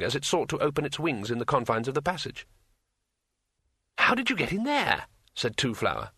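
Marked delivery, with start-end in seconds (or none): 4.0-5.1 astonished. Acted. Two Flower astonished.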